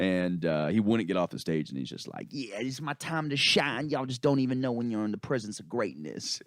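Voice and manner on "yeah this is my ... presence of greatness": grandiose freestyler. Retold or imitated. Retold freestyler refusing to leave stage.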